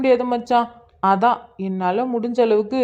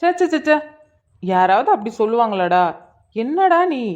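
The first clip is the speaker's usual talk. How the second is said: indignant protest. Acted. Friend rebuking a mate's first-night joke, indignant protest.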